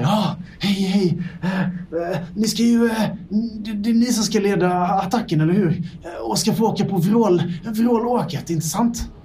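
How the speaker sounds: a flustered lab mouse apologising for being late; scrappy little mouse. Acted. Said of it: "han så här nickar".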